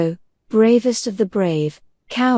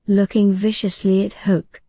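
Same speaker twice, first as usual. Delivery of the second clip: usual speaking voice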